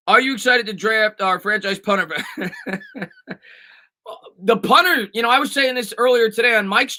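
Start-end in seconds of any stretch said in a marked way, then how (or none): 2.2-3.0 amused chuckle, trailing on; laughing. Real, not acted. Streamer reading a viewer's joke about drafting a punter, laughing. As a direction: break up laughing at the question.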